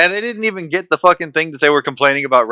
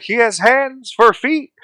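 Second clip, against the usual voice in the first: mock horrified onlooker; 9 semitones higher, slower than usual. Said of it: "they'd be like".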